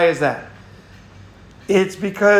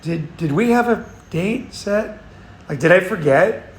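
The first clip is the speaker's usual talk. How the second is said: friendly voice; 2 semitones higher than usual. Retold or imitated. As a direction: ask gently, as if it might be your mistake. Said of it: "in a friendly voice".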